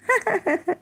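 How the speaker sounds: short, high, quiet chuckle; derisive laugh. Real, not acted. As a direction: let out a small scoffing laugh. Scoffing at the Prophet's error.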